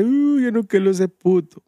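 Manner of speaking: put-on slow, mild crying little boy; lightly voiced sniffling child; mock crying kid. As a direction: imitate a kid whimpering his answer. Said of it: "Ricardo fue llorando y nomás dice".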